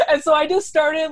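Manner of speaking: laughing at her own story mid-sentence; laughing while talking. Real, not acted. Telling a friend about getting fired, laughing.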